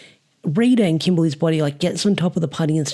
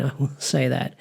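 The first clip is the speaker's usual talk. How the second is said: quieter chuckle, words trailing off softer; soft laughing aside; 4 semitones lower, 5 dB quieter than usual. Real, not acted. Vlogger laughing again at the monster's insane face, softer and amused. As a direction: laugh it off under the breath.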